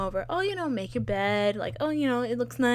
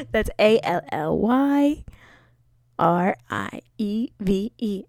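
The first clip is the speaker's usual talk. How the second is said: louder, slow, letter-by-letter "A L L Y R I E V E"; corrected spelling; 5 dB louder, slower than usual. Shown as a demonstration.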